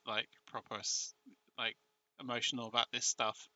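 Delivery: low, soft and moved; a bit emotional. Real, not acted. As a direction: let the voice drop away, touched. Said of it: "I get a bit emotional".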